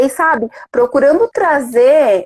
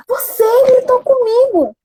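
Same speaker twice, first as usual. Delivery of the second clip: voz de criança magoada, bem mais aguda, chorando; criança chorosa; 11 semitones higher than usual. Retold or imitated. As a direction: reclame chorando como um menino pequeno. Filho reclama que mãe gritou. (voz aguda de criança chorando)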